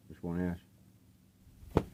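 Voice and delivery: very slow, stretched name; drawn out. Shown as a demonstration. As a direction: savor the band name slowly. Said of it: "Wishbone Ash, okay?".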